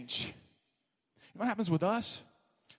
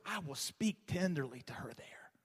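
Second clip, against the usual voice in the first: soft tender reading; 5 dB quieter than usual. Acted.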